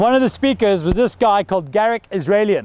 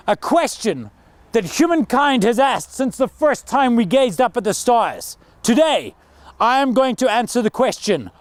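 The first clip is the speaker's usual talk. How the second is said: formal speech; 2 semitones higher than usual. Shown as a demonstration. A coach demonstrating the ideal TED opening, grand and formal. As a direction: welcome the crowd like a big stage keynote. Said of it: "if I was coaching that guy".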